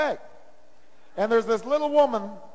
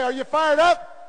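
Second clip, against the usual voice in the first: higher-pitched, slow imitated call; fired-up greeting; 5 semitones higher, slower than usual. Staff greeting each other all day long, slow high call. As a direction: ask it like a rallying cry. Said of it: "when we see each other, say".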